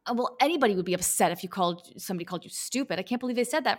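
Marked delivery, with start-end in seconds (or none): 3.0-3.8 lightly whiny "I can't believe they said that"; mock the outrage of a victim; mock victimhood. Coach mocking the victim's outrage, lightly whiny. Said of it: "You're colluding, but it's in victimhood".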